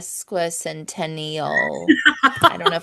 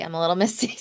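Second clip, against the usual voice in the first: a real laugh breaking into the middle of the line; laughing through it; 3 semitones lower, much faster than usual. Real, not acted. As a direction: laugh off being teary mid-sentence. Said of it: "I tear up really easily".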